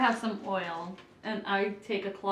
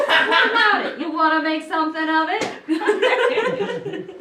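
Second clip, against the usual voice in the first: tough-guy voice; 8 semitones higher, 6 dB louder, much slower than usual. Acted. Mock challenge as the gate.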